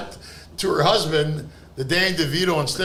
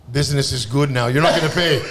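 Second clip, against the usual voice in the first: lightly voiced owner, pitched down; burger shop owner; 5 semitones lower, 3 dB louder than usual. Owner rewarding the teller, lightly acted low voice. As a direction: drop to a slightly lower accented owner voice.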